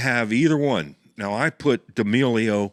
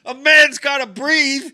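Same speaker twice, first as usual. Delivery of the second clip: laughing; 7 dB louder than usual. Real, not acted. Defending the nose break.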